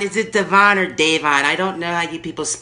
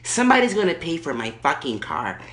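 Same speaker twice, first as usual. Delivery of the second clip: Erkenbacher. Acted. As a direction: play the furious entitled lady on the phone. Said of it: "Erkenbacher calling back".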